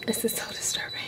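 this is so disturbing whispered. Real, not acted. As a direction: breathe the words in disgust. Whispered repeat.

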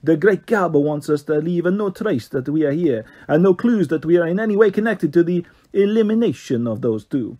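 lightly voiced posh Italian lilt; a hint of a posh Italian boss giving orders; mild Italian-accented posh voice. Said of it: "Italian accent".

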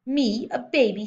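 slow, high, loud disbelief; outraged shout. A narrator's reading. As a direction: throw the question back in affronted fury. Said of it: "shouted the Trunchbull".

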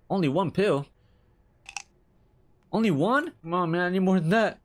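indignant whine. Real, not acted. Complaining about one pill.

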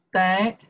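得 in third tone, dipping then rising. Shown as a demonstration. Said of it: "the third one".

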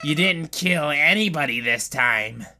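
lightly voiced sly villain, sing-song swings; mock the player, dropping low at phrase ends; taunting villain. Villain taunting the player for sparing a life, lightly menacing.

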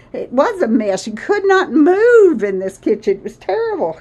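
a little winded, catching breath; breathless, talking between breaths. Real, not acted. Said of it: "I'm out of breath".

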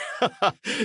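a high hearty guffaw. A narrator's reading. Knight guffawing at a soldier's retort, high laugh. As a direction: let out a big laugh. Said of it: "laughed a guffaw".

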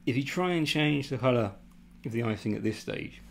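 talking while chewing gum. Real, not acted. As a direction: speak around a wad of gum. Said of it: "sorry, I'm chewing gum".

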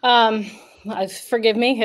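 slightly winded, catching breath. Real, not acted. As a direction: talk while still a bit breathless. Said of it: "I'm a little winded".

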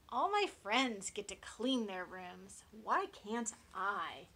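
whining piglet. Acted. Little Oink begs to clean.

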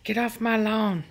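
unvoiced grumble, half-joking; whispered grumpy dog voice. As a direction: whisper it like a cranky old neighbour. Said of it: "She's like".

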